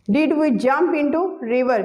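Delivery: each word spoken slowly and evenly for students to copy; slow dictation. Shown as a demonstration. Teacher dictating an example sentence to students, very slow. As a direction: dictate it slowly so the class can write.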